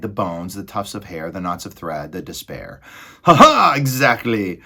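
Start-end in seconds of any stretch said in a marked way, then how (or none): 3.2-4.6 loud high "ha ha" into a gleeful word; laughing rat. A narrator's reading. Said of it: "Botticelli laughed as he negotiated".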